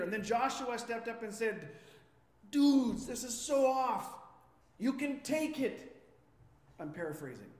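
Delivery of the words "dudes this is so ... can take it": loud, raised-pitch appeal; acted exasperated call to the crowd; urgent protest. Joshua stepping up to the Israelites, loud mock-casual protest.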